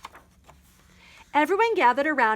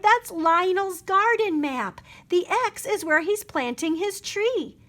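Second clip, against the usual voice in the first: cried; 6 semitones higher than usual. A narrator's reading. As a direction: make him see the mistake. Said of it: "she cried".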